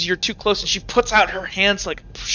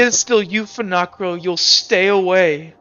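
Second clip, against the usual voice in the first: terrified pleading; 2 semitones higher, 5 dB louder than usual. Acted. Nat begs Finacrio to stay away, fearful. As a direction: push him away with fear in every word. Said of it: "terror in her voice".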